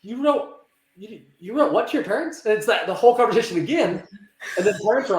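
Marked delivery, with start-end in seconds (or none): 0.0-2.4 higher-pitched, disbelieving question; incredulous. Retold or imitated. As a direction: question it as if you cannot believe it. Acting out shocked reaction to a letter.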